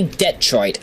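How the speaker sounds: Detroit with the first syllable DET punched; stress on DET. Shown as a demonstration. Host owning his pronunciation, Detroit stressed on the first syllable. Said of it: "the det just needs to be, uh, more emphasized".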